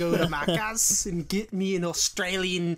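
playful put-on Australian; joking Australian accent; mock Australian accent. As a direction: ham it up as an Australian. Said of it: "I forgot how to do the Australian accent".

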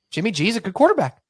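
incredulous repeat. Retold or imitated. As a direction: blurt "Jimmy G is a good quarterback" like you can't believe it. Repeats the fan's claim in disbelief.

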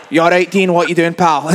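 friend switching back to broad Scottish; chatty Scottish greeting to a pal; Scottish accent. Retold or imitated. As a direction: drop straight into everyday Scottish. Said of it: "he just, like, goes from both".

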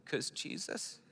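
breathy, hesitant half-whispered answer; sheepish whisper. Retold or imitated. Answering the stranger like a child, in a whisper. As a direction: blurt it shyly like a kid in children's church. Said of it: "out of my mouth goes".

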